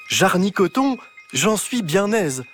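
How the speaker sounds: high, slow, delighted archaic cry; excited old-fashioned exclamation. Acted. Clara delighted about pizza, using old words. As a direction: relish the antique oath.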